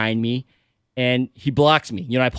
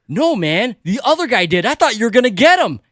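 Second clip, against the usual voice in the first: higher, incredulous pleading; indignant mock protest, pitched up; retold protest; 7 semitones higher, 3 dB louder than usual. Innocent driver answering the police officer, incredulous protest.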